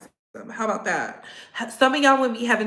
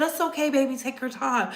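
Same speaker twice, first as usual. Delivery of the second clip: tender husband; 6 dB quieter than usual. Retold or imitated. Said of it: "he said".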